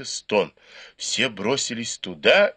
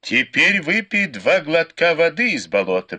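commanding; 6 semitones higher, 4 dB louder than usual. A narrator's reading. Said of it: "приказал Лю Сяньлянь".

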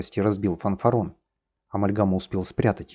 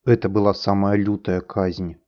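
ordinary delivery

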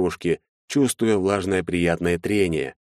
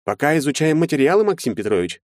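higher voice, terse answer; curt lawyer; 8 semitones higher than usual. A narrator's reading. Lawyer stalling Maxim, curt and higher. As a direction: give as little as possible. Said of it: "скупо ответил адвокат".

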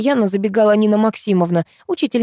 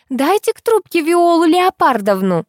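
rude caller; 9 semitones higher than usual. Acted. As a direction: bark the demand like a brash rich mother. Rude mother demanding on phone.

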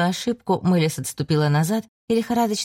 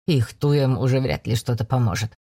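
joking; 5 semitones lower than usual. A narrator's reading. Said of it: "пошутил он".

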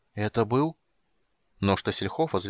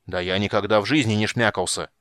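louder, offended insistence; mock fury; 4 dB louder than usual. Old wizard glaring and denying in offense. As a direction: deny it with wounded pride. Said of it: "свирепо воззрился".

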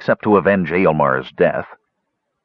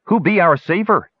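high, pleading gully dwarf voice; a hint of a whining gully dwarf; 6 semitones higher than usual. Gully dwarf begging the dwarf to stay king, whining.

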